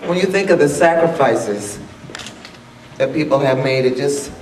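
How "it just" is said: choked up. Real, not acted. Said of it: "This is emotional".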